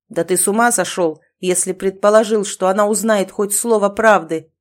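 loud, furious outburst; boiling anger. Acted. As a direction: boil over at him. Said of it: "вскипел Роксолиус".

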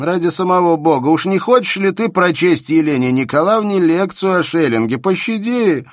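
loud, high comic protest; mock pleading. A narrator's reading. Shubin loudly begging Bersenev not to lecture Elena. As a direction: beg him to spare everyone the lecture. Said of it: "воскликнул вдруг Шубин".

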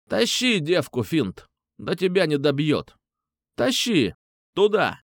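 high, urgent barked commands; shouted orders. Acted. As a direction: yell orders at your crony. Leader orders Fint to drag girl.

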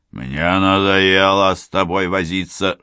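loud, fed-up hiss. Acted. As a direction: hiss it with impatience. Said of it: "шипел он".

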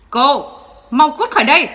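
a father roaring at an intruder; furious shout. Acted. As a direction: shout her out, loud and high. Bố Quân đuổi Phượng. (quát đuổi giận dữ)

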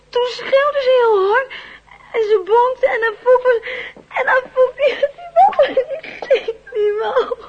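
tearful, broken telling; crying. Acted. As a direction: choke it out between sobs. Child sobbing through the story.

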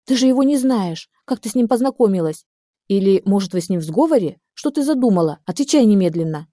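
sharp angry questioning; furious. Acted. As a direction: interrogate her in a rage. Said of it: "сходила с ума от злости".

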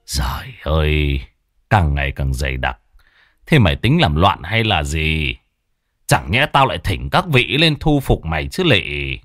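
put-on an old master groaning at the dark sky, low and heavy; weary lament. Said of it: "Thầy lắc đầu than thở".

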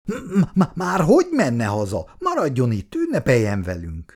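nervous stutter on the opening m; shy lad stammering to a girl. Acted. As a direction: trip over the first words, shy. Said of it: "hebegve, habogva megszólalt".

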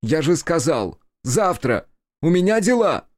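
angry yell, high and loud; furious shout at Kiku. A narrator's reading. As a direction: shout him down in anger. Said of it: "он закричал".

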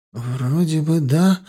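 slow, hesitant reply; unsure. Acted. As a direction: drag it out unsure. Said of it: "ответила она как-то неуверенно".

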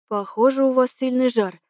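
ordinary delivery

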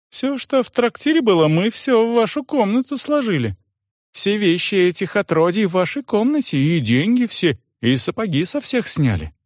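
fawning innkeeper. Acted.

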